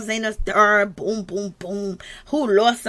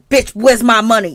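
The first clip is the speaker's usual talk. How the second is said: sudden louder demand for money, same pitch; mock demand; 6 dB louder than usual. Husband off camera to wife, imitated as a louder rough demand. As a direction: bark it like a bully cashing in.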